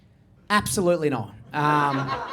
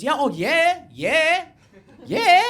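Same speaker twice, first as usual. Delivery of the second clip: mock enthusiasm, climbing higher; eager agreement; 5 semitones higher, 4 dB louder, much slower than usual. Shop lady answers a customer, hammed-up rising eagerness. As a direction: build each yeah higher and louder.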